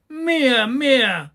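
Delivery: high cry, dropping on the repeat; shouting. A narrator's reading. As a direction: demand it like a greedy child. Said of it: "schrie Häwelmann".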